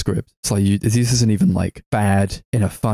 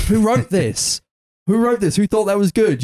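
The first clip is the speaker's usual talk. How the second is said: exasperated disbelief; 11 semitones higher than usual. Real, not acted. Exasperated at a bad line.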